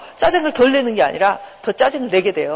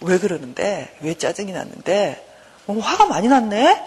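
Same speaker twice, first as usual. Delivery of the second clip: good-mother concern. Acted. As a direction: soothe like an understanding mother, lifting at the end. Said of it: "좋은 엄마처럼 이렇게 해야 돼요".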